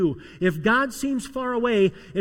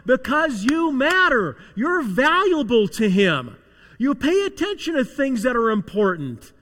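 preaching; 5 semitones higher, 6 dB louder than usual. Real, not acted. Preacher rising to full force.

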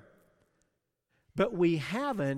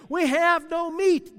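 loud, higher grumble; grumbling shout; 8 semitones higher, 6 dB louder than usual. Retold or imitated. Israelites grumbling to Moses about no meat, loud grumble. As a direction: whine it out like a hungry crowd.

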